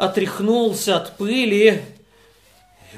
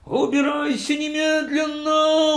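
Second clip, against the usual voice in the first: higher shouted order; the host ordering the guest out, higher shout; 8 semitones higher than usual. Acted. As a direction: bark the order to leave. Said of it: "закричал, закричал хозяин".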